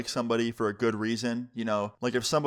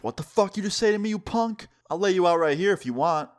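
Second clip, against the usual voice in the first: imitating an outraged dad, pitched high; mock confrontational outburst, higher than usual talk; retold angry threat; 7 semitones higher than usual. Dad threatening daughter's boyfriend after back talk, angry retelling.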